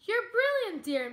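high, bright cheer; a happy high cheer. Acted. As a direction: cheer him on with delight. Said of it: "Miss Spider cheered".

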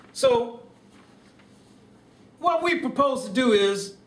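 mild presidential speech voice with stately pauses; Barack Obama impression. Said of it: "Thank you, Barack".

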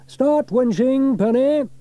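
firm command to winch; Fireman Sam. A narrator's reading. Sam orders Penny to winch, slow and firm. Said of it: "said Fireman Sam".

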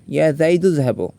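যাইদু linked straight into যাহাবু; alif left silent. Shown as a demonstration. Teacher showing changed phrase, silent alif between যাইদু and যাহাবু. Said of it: "আলিফটা উচ্চারণ হয় নাই".

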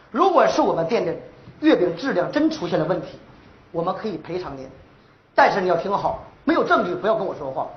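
stern, firm phone rebuttal, low in pitch; heavy-handed tone. Acted. Boyfriend answering a complaining customer by phone, stern. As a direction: lay down the terms firmly. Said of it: "刚才那语气有点重了".

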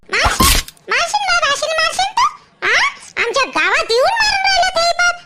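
scandalised scolding with rising questions; indignant confrontation. Acted. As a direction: confront an attacker head-on. Neighbour confronts man beating the girl.

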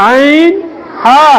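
"আইন" pressed from the middle of the throat, then "হা"; pressed throat sound. Shown as a demonstration. Teacher showing where ain is articulated, pressed "আইন", then "হা". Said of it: "চাপ দিয়া বলতে হবে".

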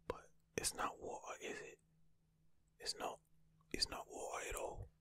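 whispered attempt at a British accent, water with no r; mock British accent, badly done; a clumsy British accent on water. Shown as a demonstration. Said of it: "Very bad accent".

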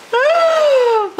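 long, high-pitched gasp; high delighted gasp. Real, not acted. Overwhelmed by the gifted plants.

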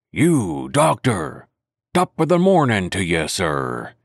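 a hint of a jovial old pirate greeting; lightly voiced sailor, all good nature; beaming Long John Silver. Silver greeting the doctor at dawn, lightly voiced jovial pirate. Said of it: "cried Silver, broad awake and beaming with good nature".

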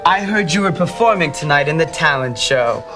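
sarcastic fake sweetness. Rival gloats with fake sweetness.

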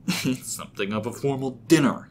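exaggerated mocking mimicry. A narrator's reading. James mimicking Rob's dinner remark, mockingly. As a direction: parrot the line back with scorn. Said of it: "he said in a mocking tone".

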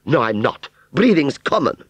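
high, loud, haughty denial; snobbish fairground aunt. Acted. Aunt Sally calling breathing common, snobbish. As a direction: snub him in a high voice.

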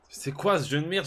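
cri aigu et fort d'exaspération; éclate contre le jeu, plus haut; angry. Real, not acted. Même phrase redite, criée ensuite. (crié d'exaspération)

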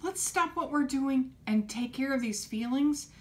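high, loud "Oh, let's stop"; caring grown-up responding with energy; eager caring adult. Retold or imitated. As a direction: jump in eagerly to help. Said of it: "we know".

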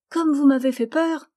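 put-on high, loud, happy child's voice; a child cheerful about meeting mother; high, bright and loud; relieved little girl. A narrator's reading.

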